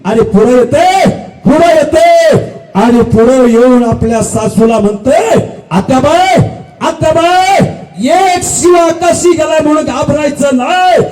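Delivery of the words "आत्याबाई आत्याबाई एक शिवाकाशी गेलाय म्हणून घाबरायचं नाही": rousing, declaimed promise; fervent warrior oration; defiant widow's vow. Acted. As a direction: swear revenge with deliberate, stretched key words. Widow vows revenge to mother-in-law.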